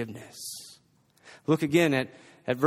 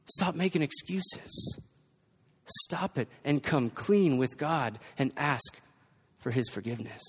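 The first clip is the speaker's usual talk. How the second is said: quiet earnest plea; 5 dB quieter than usual. Acted. Preacher softly pleading with listeners to come clean. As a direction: pull back and plead gently. Drop after preaching climax.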